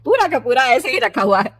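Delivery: lightly scolding motherly voice; mild maternal reproach; chiding mother. Acted. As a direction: gently tell off your daughter. Mother chiding daughter over milk.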